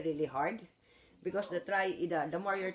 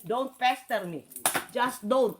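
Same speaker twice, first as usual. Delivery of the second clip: firm warning; 3 semitones higher, slower than usual. Real, not acted. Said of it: "I said".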